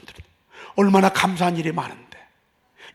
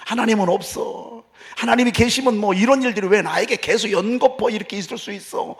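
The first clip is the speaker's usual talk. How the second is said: doubter's complaint. Retold or imitated. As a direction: mildly mimic a despairing unbeliever. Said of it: "이런 소리 되게 많이 들었죠".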